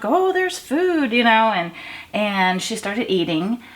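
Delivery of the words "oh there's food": cat's happy voice. Retold or imitated. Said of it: "she was like".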